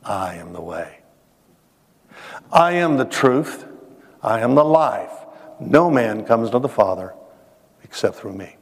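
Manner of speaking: calm, measured pronouncement with pauses between statements; calm Jesus. Retold or imitated. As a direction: answer patiently, letting each statement settle. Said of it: "he just calmly looks over and he says".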